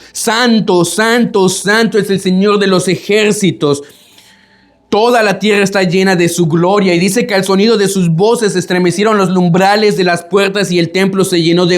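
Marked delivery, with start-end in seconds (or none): 0.1-7.0 santo proclamado más agudo; proclamación gritada. Retold or imitated. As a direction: clama santo como los serafines. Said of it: "estaban gritando". (proclamación de serafines, algo más aguda)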